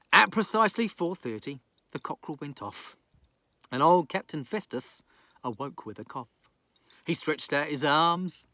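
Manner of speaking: lilting bedtime storyteller; gentle sing-song reading of a rhyme; bedtime story narration. Acted. Reads bedtime rhyming story.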